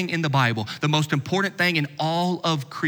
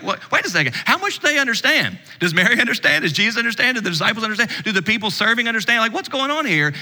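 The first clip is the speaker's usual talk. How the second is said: baffled questioning; 6 semitones higher, faster than usual. Acted. Acted confusion of the listeners.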